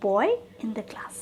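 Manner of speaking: each word laid out slowly for copying; slow, deliberate model sentence; slow dictation. Shown as a demonstration. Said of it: "इस तरह से आपको sentence बनानी है".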